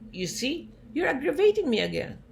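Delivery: high, loud, fast exasperation; doctor losing patience with his patient, exasperated and loud. Retold or imitated. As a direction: snap at the patient in irritation. Doctor complains, retold argument.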